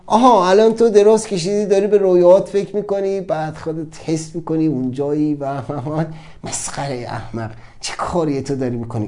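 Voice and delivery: sneering, fading into a hushed insult; mocking inner voice. The mind ridiculing him as he lies dreaming, sneering.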